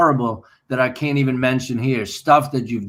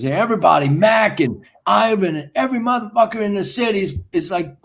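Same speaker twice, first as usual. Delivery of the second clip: lightly voiced frustrated manager, rising higher; mock scolding manager; 6 semitones higher than usual. Manager on the phone scolding Anders for failing, mock exasperated.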